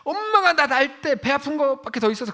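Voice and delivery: high-pitched mock bratty retort; very insolent. Daughter talking back to her mother, hammed-up insolence. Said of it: "엄청 싸가지 없이".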